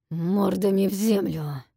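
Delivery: a rumbling order, fairly loud; booming dragon command. A narrator's reading. Dragon orders faces to the ground, booming command. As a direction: bark it down from the sky. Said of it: "громыхнуло совсем близко".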